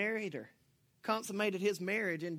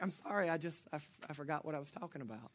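sheepish apology; 4 semitones lower, 8 dB quieter, faster than usual. Retold or imitated. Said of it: "I'd be like".

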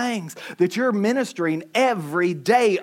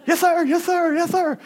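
mock kids; 7 semitones higher than usual. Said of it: "kids obeying after yell".

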